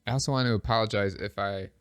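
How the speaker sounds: stuffy nose, breathing through the mouth; blocked nose. Real, not acted. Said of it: "I can't breathe out of my nose right now".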